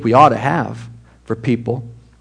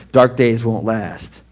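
doom and gloom; slower than usual. Shown as a demonstration. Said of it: "it sounds all doom and gloom".

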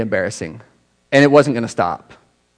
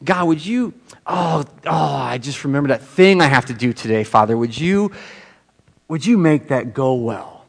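sincere prayer. Retold or imitated. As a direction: ask God gently for the day. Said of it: "And then I pray".

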